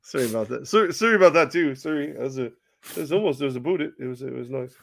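lightly put-on Canadian-Aussie accent; Steve Nash. Fired coach apologizing to the hosts, in a mock Canadian-Aussie accent. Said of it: "Australian or Canadian or bonjour".

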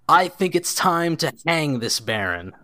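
loud, high call over the noise; shouting above the crowd. Acted. Townsman calling the crowd to hang the Baron, loud shout. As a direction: shout it so the whole square hears. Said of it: "shouts very clearly above the crowd".

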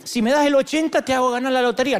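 God as a needy dealer, lightly played; bargaining God. God haggling over a lottery win, mildly mocked. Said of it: "como que Dios dice".

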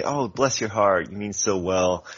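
a gently sincere "bless your heart" as a real thank-you; mean every word of "bless your heart", kindly. Shown as a demonstration. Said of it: "you can actually truly mean it as a thank you".

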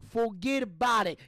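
"forget about it" punched out in a mobster accent; Italian-American with feeling. Shown as a demonstration. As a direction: give "forget about it" soul, falling hard at the end. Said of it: "you gotta say it the right way".

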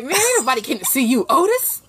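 high-pitched mimicry of odd vocal inflections; Otis-line impression. Co-host mocking an actor's delivery, weird vocal inflections. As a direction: imitate his weird inflections, rising high at the end. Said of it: "He sound like".

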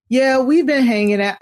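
a little taste of a Southern accent. Shown as a demonstration. Demonstrating for the co-hosts, light Southern accent. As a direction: put just a bit of Southern on it. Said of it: "that was my little taste of my Southern accent".

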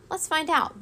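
bright lift on the words, mildly excited; beaming. A narrator's reading. Teacher Frizz eager to start the lesson, mildly excited. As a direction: beam with a bit of eager energy. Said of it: "beamed the Frizz".

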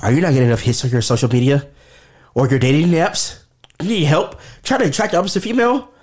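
upbeat TV commercial pitch; infomercial. Pretend. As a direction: sell it like a late-night ad. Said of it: "I gotta do commercial".

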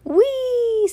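very high, sustained squeal of joy; gleeful whee. A narrator's reading. Passenger on wild car ride, gleeful squeal. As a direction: let it soar like a joyride.

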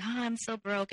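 a mildly whiny imitation; mock complaining. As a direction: imitate him moaning, lightly mocking. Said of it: "he would just cry about it".

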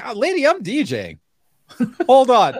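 high, laughing "hold on"; laughing brush-off. Retold or imitated. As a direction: laugh it off while busy at the decks. DJ answers the bridesmaid.

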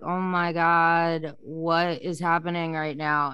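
drawn-out, slow 'oh my God' of disbelief; overwhelmed inner voice. Retold or imitated. Client recalling a flood of emotions, overwhelmed. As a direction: retell an overwhelmed thought, stretching the words out.

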